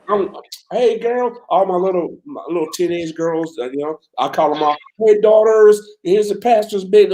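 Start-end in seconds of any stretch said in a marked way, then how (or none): 0.7-1.4 cheery greeting call. Retold or imitated. Calling out to church girls. 5.0-7.1 higher and louder, bright hail; cheery called greeting. Retold or imitated. Calling out to church girls.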